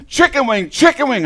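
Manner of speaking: loud, high shouts from the sidelines; coach yelling. Retold or imitated. Coach yelling instructions at his pinned wrestler, loud high shouts. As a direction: bark the move at your wrestler. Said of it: "and my coach is going".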